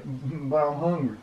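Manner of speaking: rat's whine. Shown as a demonstration.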